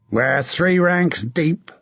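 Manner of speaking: a battle-hardened knight urging a comrade on; hard, rough commander's voice; grim veteran knight giving orders; gruff knight. Acted. Sir John sizes up the enemy.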